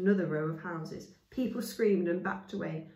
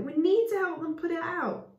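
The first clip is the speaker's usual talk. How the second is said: insistent; 11 semitones higher, 6 dB louder than usual. Acted. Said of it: "cried Chaya".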